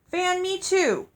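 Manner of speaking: high, loud, whiny demand; demanding Olive. Acted. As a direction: demand it like a spoiled girl. Olive demands, voiced in story.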